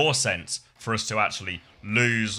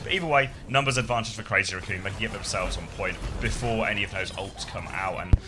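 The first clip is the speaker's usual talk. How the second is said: live play-by-play. Acted. Casts the match.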